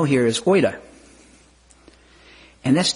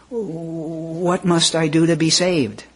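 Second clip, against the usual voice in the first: mild desperate cry; 6 semitones higher, much slower than usual. Retold or imitated. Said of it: "cried the Philippian jailer".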